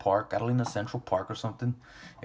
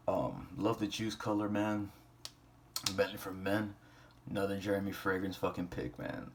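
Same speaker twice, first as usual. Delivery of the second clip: nodding off. Real, not acted. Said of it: "I'm falling asleep right now".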